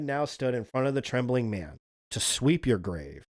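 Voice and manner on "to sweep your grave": low, slow monster growl. Acted. Rawhead growls at the trembling hunter, low and slow. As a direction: growl it like a hulking beast. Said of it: "he growled".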